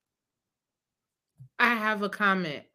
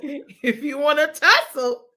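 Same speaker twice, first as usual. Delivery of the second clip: higher, slow, taunting read of the line; mock tough Pete; 6 semitones higher, 7 dB louder, slower than usual. Cohost reading Pete's dare, hammed-up taunting. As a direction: draw out the dare playfully. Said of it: "Pete said".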